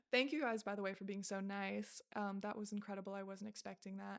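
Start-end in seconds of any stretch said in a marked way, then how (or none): 0.1-0.6 real laugh through the words; grateful laugh spilling into the thanks. Real, not acted. Thanking her viewers for kindness, laughing and emotional.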